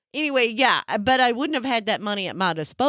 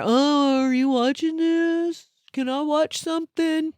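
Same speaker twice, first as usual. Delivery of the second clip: mimicking husband; 4 semitones higher than usual. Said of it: "you come in there".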